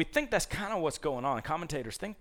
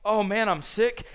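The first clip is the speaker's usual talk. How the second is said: sick king; 8 semitones higher, 7 dB louder than usual. Retold or imitated. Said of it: "Hezekiah's like".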